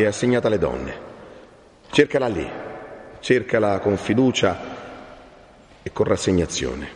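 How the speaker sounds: grave, measured counsel; solemn friar. Acted. Friar sends Renzo to search among the women, solemn.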